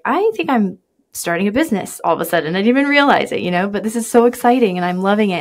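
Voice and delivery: imitating someone thrilled and surprised, pitch lifting; lightly acted giddy realization; excited newcomer. Host voicing new business owners to guests, excited.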